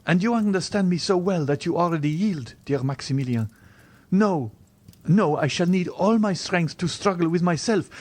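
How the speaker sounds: put-on young woman resisting, in a high voice; impassioned Valentine. A narrator's reading. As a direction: plead with rising insistence. Valentine pleads in the story.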